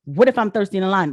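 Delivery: quick, dismissive retort; repeating the complaint to scoff at it, quick. Real, not acted. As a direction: toss the line back fast and dismissive. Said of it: "now I am talking to Black people".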